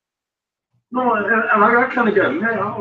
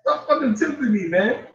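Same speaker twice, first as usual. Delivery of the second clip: exasperated; 7 semitones higher than usual. Retold or imitated. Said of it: "I got mad".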